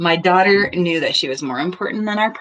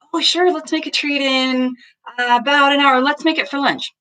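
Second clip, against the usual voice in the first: friendly mom reply; 8 semitones higher than usual. Shown as a demonstration. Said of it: "a medium-sized turning toward".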